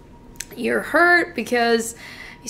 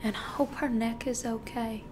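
soft, halting, near-whispered thanks; hushed and humbly grateful, with long hesitant pauses; meek gratitude; 11 dB quieter than usual. Acted. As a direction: speak timidly, barely above a whisper. Grateful client thanks his lawyer.

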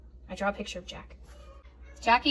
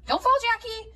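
worried call; 11 semitones higher than usual. Acted. Calling to running toddler.

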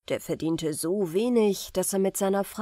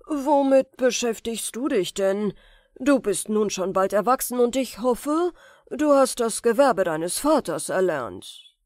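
louder, prying sorcerer; probing uncle; 3 semitones higher, 6 dB louder than usual. Acted. The sorcerer questions Aladdin, falsely concerned.

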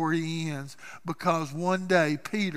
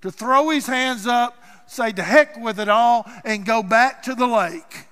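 louder, exasperated giving up; mock quitting outburst; 3 semitones higher, 6 dB louder than usual. Preacher voicing Peter ready to quit, loud exasperation. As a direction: throw up your hands and quit.

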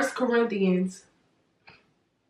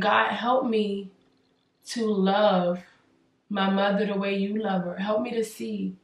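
soft, pleading prayer, much softer; hushed prayer; 2 semitones lower, 7 dB quieter than usual. Retold or imitated. Retelling her prayer to God, hushed and pleading.

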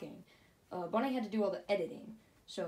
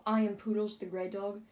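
snooty poodle voice; 4 dB louder than usual. Acted. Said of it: "that's why we say".

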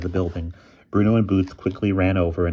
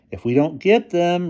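higher, louder upbeat reply; cheerful; 11 semitones higher, 5 dB louder than usual. A narrator's reading. Boy rallies his reluctant friends, cheerful. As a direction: brush off the refusal cheerily. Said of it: "responded Bruno cheerfully".

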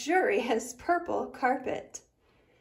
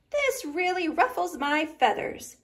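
grumbling; 4 semitones higher than usual. Acted. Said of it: "Sally grumbled".

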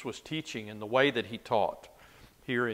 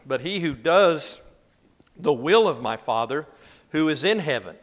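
raised, louder reading voice; scripture reading; 2 semitones higher, 7 dB louder than usual. Acted. Teacher reading Jesus' words to a Bible class, raised scripture reading. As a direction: read the verse out with weight.

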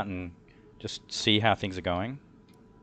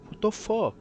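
higher, imitating the ladies' shocked cry; mock shocked outburst. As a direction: play the shocked driver, half-mocking. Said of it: "And then they were just like".

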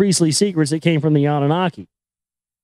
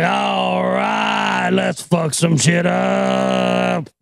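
brash warrior king; 2 semitones higher, much slower than usual. Retold or imitated. Retelling Shulgi's arrival for laughs, slow mock battle shout. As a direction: growl it out like a thug king spoiling for a fight. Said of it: "Shulgi comes in and's like".

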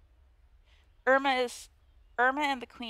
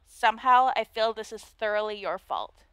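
put-on Valley Girl voice; 4 dB louder than usual. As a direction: play the snooty mean girl, Valley Girl style. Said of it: "a Valley Girl voice".

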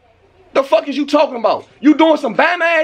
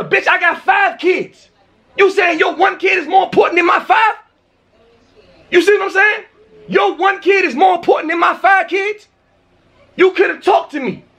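raised, heated rant; angry yelling; 3 semitones higher than usual. Real, not acted. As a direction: let the anger rise as you argue. Angry rant at nosy neighbor.

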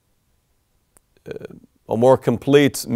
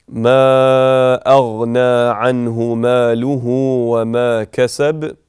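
Quran recitation; 5 dB louder than usual. Shown as a demonstration. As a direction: recite it like a qari in prayer.

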